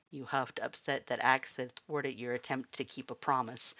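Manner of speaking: ordinary delivery, nothing marked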